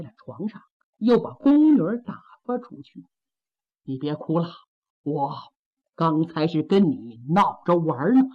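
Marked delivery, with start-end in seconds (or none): 3.8-8.2 calm her down gently; soothing husband. Acted. Husband comforts weeping wife.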